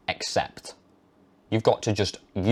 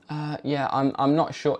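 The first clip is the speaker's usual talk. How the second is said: unsure mumble; 3 semitones higher, 4 dB quieter than usual. Retold or imitated. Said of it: "I used to say".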